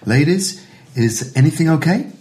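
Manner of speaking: high, polite waiter's inquiry; lightly voiced waiter checking in. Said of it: "The waiter comes over and goes".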